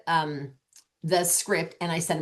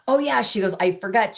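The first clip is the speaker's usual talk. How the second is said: retold "oops" moment, pitched up; higher, louder burst of remembering; sudden realisation; 5 semitones higher, 3 dB louder than usual. Hostess realises she forgot to pass on a message, sudden realisation.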